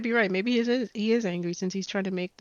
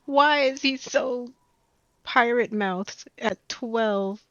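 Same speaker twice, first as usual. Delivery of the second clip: higher, louder, breaking into laughs; cracking up while asking in disbelief; laughing in disbelief; 6 semitones higher, 5 dB louder, slower than usual. Real, not acted. Cracking up at foul-mouthed child character.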